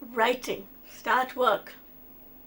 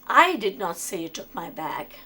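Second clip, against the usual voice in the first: "I" stressed to show it was not me who said it; 5 semitones lower than usual. Shown as a demonstration. Teacher showing students the stress on "I". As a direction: lean on the word "I" and keep the rest level. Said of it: "means that I didn't say it, someone else said it".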